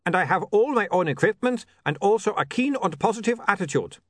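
put-on light Uberwald vampire accent, formal and eager; a keen young vampire from Uberwald, lightly voiced; Otto's Uberwald accent. A narrator's reading. Otto lists his merits.

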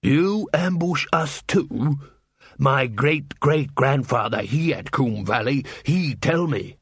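slow, grudging troll voice; a lumbering troll picking a fight; slow troll trading insults with a dwarf; troll quarrelling. Acted.

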